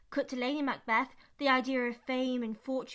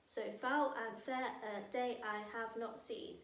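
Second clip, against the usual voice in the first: quiet recital; 2 semitones lower, 6 dB quieter than usual. Shown as a demonstration. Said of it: "there are ten syllables".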